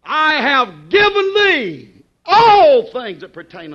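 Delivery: slow and loud, leaning on all; slow emphatic reading. Shown as a demonstration. Preacher repeating the verse loud and slow for the congregation. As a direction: read it slow and heavy so they listen. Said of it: "I want you to listen to that now".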